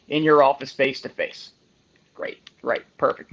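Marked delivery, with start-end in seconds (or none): 2.1-3.3 whispered dry sarcasm, great right perfect; deadpan "great, right" under the breath; sarcastic. Real, not acted. Sarcastic reaction to the rule.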